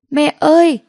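high, loud cry for mother; child wailing from the other room; hoarse crying scream. A narrator's reading. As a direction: scream for her as the door shuts. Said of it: "Tiếng khóc khản đọc".

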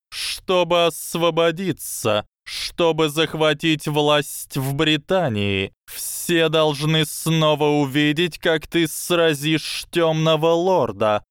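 high, slow lecturing snake voice; slow hypnotic serpent hiss. Acted. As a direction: coil the words around him slowly. Snake explains plan.

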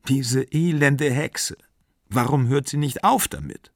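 mildly acted angry exclamation; exasperated outcry. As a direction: cry it out in exasperation, without real volume. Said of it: "rief sie".

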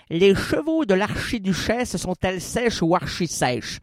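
articulated tongue twister; careful fast articulation; virelangue articulé. Shown as a demonstration. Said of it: "Vous savez que je fais ce numéro-là". (virelangue bien articulé)

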